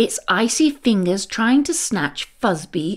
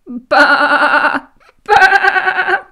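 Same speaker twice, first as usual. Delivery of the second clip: mischievous sheep laughing baa; laughing bleat; 5 semitones higher, 5 dB louder, much slower than usual. A narrator's reading. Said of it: "laughed the mischievous sheep".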